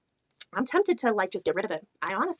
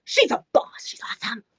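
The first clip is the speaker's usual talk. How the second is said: awed gushing. Real, not acted. Repeats the gush, thinner voice.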